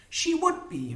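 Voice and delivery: high-pitched, bitter woman's retort; disdainful sniff. A narrator's reading. Molly answering that she is the last, high and sniffy. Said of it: "Molly sniffed".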